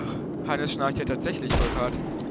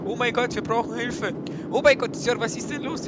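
mock panic; 8 semitones higher, 7 dB louder than usual. Fake panic about infection.

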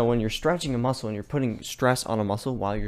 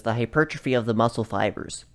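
a touch louder technical reading; 4 dB louder than usual. Pretend. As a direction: stiff formal definition read. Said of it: "let me put on my technical voice".

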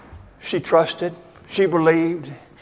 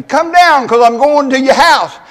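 higher, louder call up to the tree; 7 semitones higher, 8 dB louder than usual. Retold or imitated. Jesus calling up to Zacchaeus in the tree, loud and higher. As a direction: call him down with authority. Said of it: "in that kind of tone of voice".

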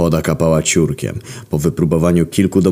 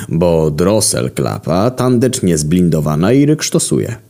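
expert locksmith; 2 semitones higher than usual. Acted. Locksmith pronounces his diagnosis.

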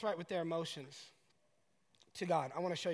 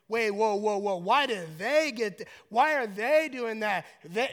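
loud, incredulous protest; mock-outraged envious complaint; indignant disbelief; 2 semitones higher, 7 dB louder than usual. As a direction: object as if cheated. Voices envious, indignant inner reaction.

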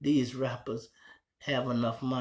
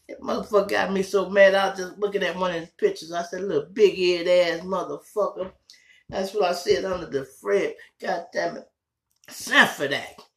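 mock angry rant; 7 semitones higher, 7 dB louder than usual. Real, not acted. Ranting at Fred Sanford.

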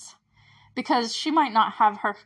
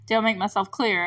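retold Hopper question. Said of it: "he stands up ... looks down at them".

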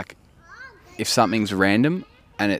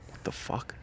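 whispering; 14 dB quieter, slower than usual. Retold or imitated. Retelling shock at dog's death.

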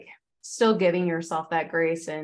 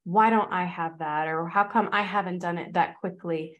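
mock fan gushing, then a jealous doubt; imitating an envious commenter, starting with a gush; 2 semitones higher than usual. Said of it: "they're like".

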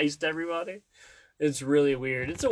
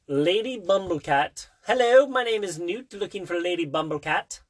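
lilting, pitched-up greeting; playful character introduction; 2 semitones higher than usual. Pretend. Parent playing Newt looking for Lady Bumblecat, silly lilting voice. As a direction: put on a silly introduction, rising at the ends.

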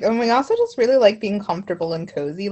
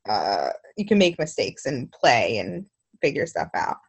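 mouth full; 2 semitones lower than usual. Real, not acted. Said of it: "I'm sorry, I'm eating".

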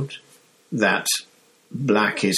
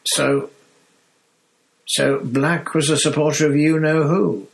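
higher, rattled conductor catching his breath; higher, nervous Stan; shaken Stan; 6 semitones higher than usual. Acted. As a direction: still shaken by the name. Stan shaken, still voiced.

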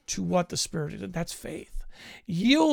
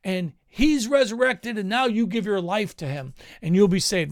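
imitated preaching; 4 semitones higher than usual. Preacher imitating how many people preach, raised sermon voice. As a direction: rattle off a mock sermon. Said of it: "a lot of people preach".

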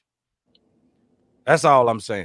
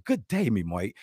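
mock Aussie greeting; 6 semitones lower, 6 dB quieter than usual. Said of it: "this how she talk".

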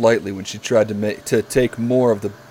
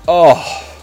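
hammed-up Barry voice; 2 semitones higher, 5 dB louder, slower than usual. Voicing Barry in fanfic.

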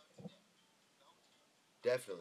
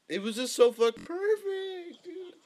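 frat bro; 11 semitones higher, 6 dB louder than usual. Real, not acted. Gushing over a knockout replay.

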